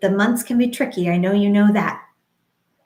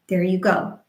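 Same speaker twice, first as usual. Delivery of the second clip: ordinary talk, nothing marked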